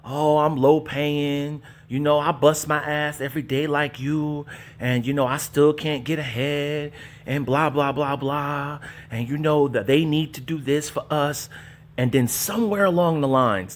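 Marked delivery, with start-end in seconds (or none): 0.0-11.5 mock struggle vlogger. Mocking struggle content creators with a mild whine. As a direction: lightly parody a sob-story YouTuber. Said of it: "pumping this struggle content".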